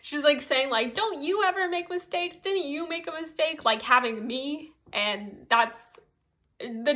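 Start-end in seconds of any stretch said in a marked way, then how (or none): 0.9-3.6 mean accusing. Retold or imitated. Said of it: "Emma's kinda mean in this part".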